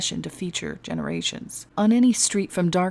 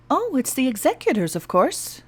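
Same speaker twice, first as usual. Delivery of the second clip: excited; 7 semitones higher than usual. Acted.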